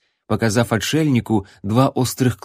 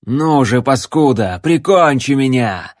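yelled; 3 semitones higher, 5 dB louder than usual. A narrator's reading. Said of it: "завопил он".

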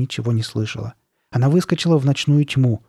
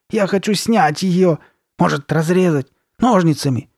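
higher, louder, distressed pleading; desperate plea; 6 semitones higher, 4 dB louder than usual.

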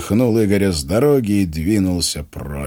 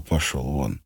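remembered dismissal; 5 semitones lower, 7 dB quieter, slower than usual. Retold or imitated. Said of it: "Вероника тоже сказала".

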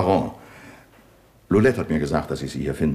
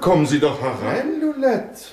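raised, pointed call through the door; ironic call; 10 semitones higher than usual. Acted. Commissioner calls the eavesdropping maid in, raised ironic voice.

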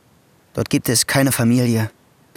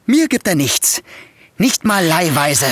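indignant complaint; 5 semitones higher than usual. Acted. Nephew complains about stingy uncle.

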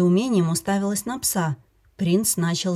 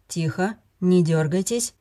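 calm soothing. Acted. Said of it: "спокойным голосом увещевал Филипп".

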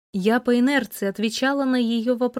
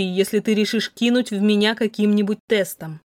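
plain reading voice

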